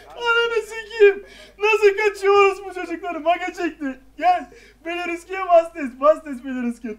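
loud, high exasperated yell easing slightly; angry shouting. Real, not acted. Player raging as enemies escape, angry shouting. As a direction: curse and yell orders at the team.

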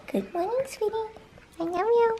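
high, soft pet-talk voice. Real, not acted. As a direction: coo to the dog. Talking to the dog.

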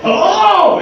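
high, loud mock hello; funny naysayer voice. Inner voice startling him behind the governor, high and comic. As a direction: call it out in a silly high-pitched voice. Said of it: "in a funny accent".

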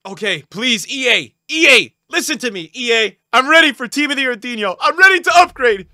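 high, loud begging, building; loud pleading. Real, not acted. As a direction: beg hard, rising to a shout. Begging EA for a good pack.

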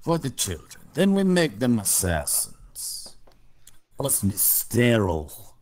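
slow mock Russian villain; menacing but cheesy Russian accent; bad Russian accent. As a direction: joke villain scheming to make children assassins. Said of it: "two guys doing bad Russian accents".

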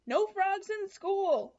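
loud, slow teacher's decree; firm loud classroom rule; stern declaration. A narrator's reading. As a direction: lay down the rule like a strict teacher.

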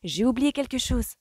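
high-pitched, artless confession; feigned innocence. A narrator's reading. Felicity invents an excuse for mother, innocent. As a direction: play innocent, voice lifted high. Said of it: "s'exclama-t-elle avec de grands yeux innocents".

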